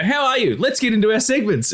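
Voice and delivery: mocking his own prim greeting, high and sweet; prim polite host. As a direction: sing it like a prissy host. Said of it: "I go".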